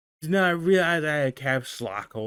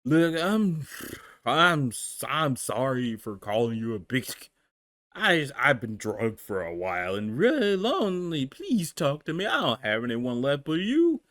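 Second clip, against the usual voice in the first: put-on drunk apology; 4 semitones lower than usual. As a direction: mumble sorry, drunk and lonely. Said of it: "doing the drunken god voice".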